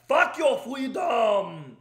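put-on slow, loud shouted Austrian accent; Arnold shouting. Quoting Arnold's lockdown line to viewers, slow Austrian shout. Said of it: "exactly what he said in twenty twenty".

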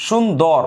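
সুন্দর slowed, halting on the n and the final r; আটকে আটকে বলা. Shown as a demonstration. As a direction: say সুন্দর slowly as two closed syllables, shun-dor. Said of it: "আমি আটকাচ্ছি". (সুন্দর ধীরে, ন আর র-তে আটকে)

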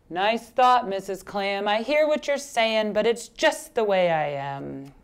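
lightly voiced glum fish, sinking at the end; resigned pout-pout fish. Fish turns down clam's advice, mildly glum. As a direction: begin politely, then droop into resignation.

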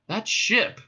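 high, rising question; sudden excitement. Acted. Ford reacts to Marvin's police craft remark, sudden excitement. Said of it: "said Ford in sudden excitement".

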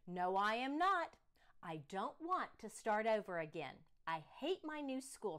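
put-on loud, stubborn child's no; child protesting. Daughter refusing to get out of bed, loud protest. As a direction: dig in and refuse, loudly.

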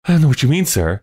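put-on high-pitched anxious boy; alarmed boy. A narrator's reading. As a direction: protest nervously as a young apprentice. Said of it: "quite as much alarmed".

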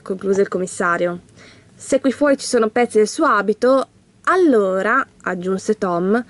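lightly animated storybook reading; measured storyteller's delivery; story narration. A narrator's reading. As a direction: read a children's mystery aloud.

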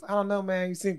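mimicking Chris. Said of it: "that's how he said".

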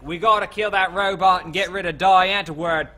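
loud, broad South African voice; hammed-up South African quote; mock South African accent. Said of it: "it's South African".

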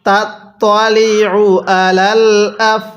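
slow, drawn-out syllables; slow recitation demo. Shown as a demonstration. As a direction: chant each syllable for learners. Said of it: "কিভাবে পড়ব?".

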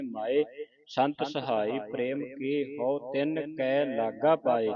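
slow, measured teaching recitation; scripture recitation. Shown as a demonstration. Teacher reading scripture for the congregation, slow recitation. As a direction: recite each word slowly, drawing out the vowels.

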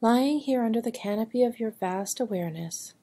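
calm, measured meditation voice with long pauses; guided meditation. Acted. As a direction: guide a listener gently into stillness, phrase by phrase. (unhurried guided meditation delivery)

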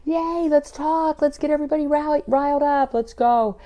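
high, loud, hyped-up party animal; excited cheerleading. Acted. Acting out a fire animal riling everyone up, excited.

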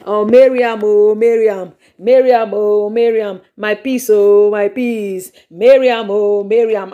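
lightly hammed-up lovesick wailing; mock wailing call. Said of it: "He has been shouting".

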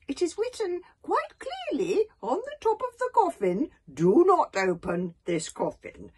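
put-on a frail old elder butting in. Old Wrinkly warns the tribe.

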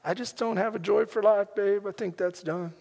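soft, subdued admission to a spouse; downcast confession. Retold or imitated. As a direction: admit it quietly, with the energy gone. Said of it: "but I wasn't laughing then".

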